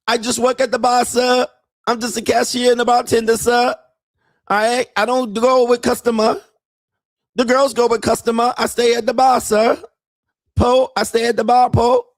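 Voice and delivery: put-on high, broken-English Thai girlfriend voice; mock Thai accent. Mocking Thai girlfriend asking her man for money in a high accented voice. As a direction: imitate a Thai bar girl pleading for money.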